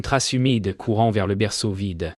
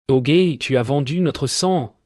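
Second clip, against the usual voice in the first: rage; 4 semitones higher than usual. Acted. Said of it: "la rage éclate".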